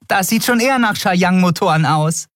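an eager tinkerer recognising the engines; Nelen's voice. A narrator's reading. Nelen's character voice.

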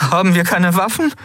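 high-pitched, worried asking; anxious question. Acted. Crew member asks about weapons under threat, anxious. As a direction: ask it high, hoping for a yes.

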